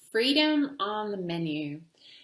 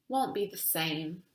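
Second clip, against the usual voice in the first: grumbling; 3 semitones lower, 5 dB quieter than usual. Acted. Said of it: "I grumbled".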